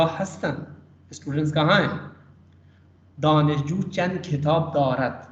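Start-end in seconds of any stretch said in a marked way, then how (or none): 3.2-5.3 reading the exercise slowly and clearly; unhurried model reading of Persian sentences; slow read-aloud. Shown as a demonstration. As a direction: read out each word carefully for learners. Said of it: "میں نے just پڑھ کے سنایا".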